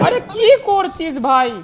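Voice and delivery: slow, high, loud yell at teammate; angry shout. Real, not acted. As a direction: yell out in real frustration. Gamer yelling at teammate.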